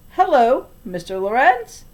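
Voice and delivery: put-on girl calling at a neighbour's door. A narrator's reading. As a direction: call through the door. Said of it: "I called".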